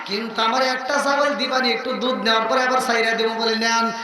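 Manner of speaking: waz preaching. Real, not acted. Preacher telling the crowd of the Prophet and Bilal, impassioned chanting. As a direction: preach at full force, stretching line endings into melody. Preaches a story at full force.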